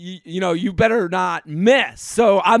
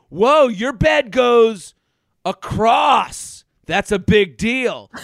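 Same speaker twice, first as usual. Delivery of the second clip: mock amazed whoa; 3 semitones higher, 4 dB louder, much slower than usual. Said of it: "The first thing he said".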